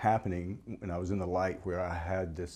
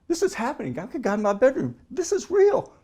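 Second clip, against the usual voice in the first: high, louder, overwhelmed rising wonder; awestruck exclamation; 8 dB louder than usual. Retold or imitated. Man realizing God is in his bedroom, loud awestruck exclamation. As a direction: let the realization swell and break out.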